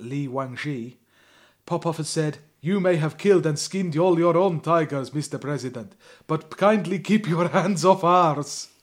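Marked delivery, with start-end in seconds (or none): 2.6-8.7 hammed-up Russian accent, slow at the end; mock Russian accent. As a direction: lay on a comic Russian accent. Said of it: "Your accent's delightful".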